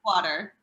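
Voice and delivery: water with a slightly longer A sound; water, Midwestern longer A. Shown as a demonstration. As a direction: stretch the A a bit longer in water. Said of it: "how would you say it".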